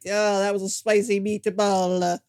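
lightly voiced Dracula, slow and offhand; a hint of an unbothered count; mild mock Dracula. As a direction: shrug it off, slow, like a bored villain. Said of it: "like, like".

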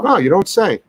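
dry mock amazement; sarcastic. Real, not acted. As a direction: fake wow, clearly joking. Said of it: "I'm being a little bit sarcastic".

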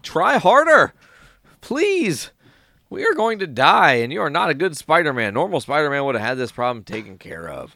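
hammed-up frantic rescued guy; mock exasperated. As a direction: nag him like you're about to die. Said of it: "He's like".

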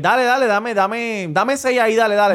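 put-on drunk customer. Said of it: "está bien encasquillado y borracho".

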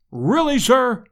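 indignant cry. A narrator's reading. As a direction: bristle with outrage. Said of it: "cried the professor".

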